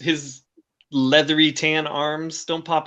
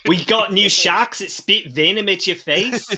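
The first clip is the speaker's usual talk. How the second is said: news anchor; 3 semitones higher, slower than usual. Acted. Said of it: "Australian news anchors announcing".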